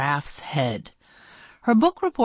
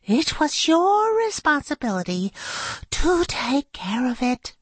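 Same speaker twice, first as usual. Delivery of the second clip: stern teacher; 10 semitones higher than usual. Acted. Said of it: "scolding teacher".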